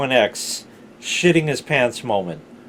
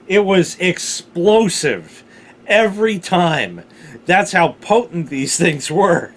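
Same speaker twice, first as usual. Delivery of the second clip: emphatic excitement; 4 semitones higher, 4 dB louder than usual. Real, not acted. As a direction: hammer home how explosive it was. Bragging about explosive pepper aftermath.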